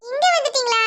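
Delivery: laughing nervously, half crying. Acted. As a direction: laugh it off when caught out. (பிடிபட்டதும் பதட்ட சிரிப்பு)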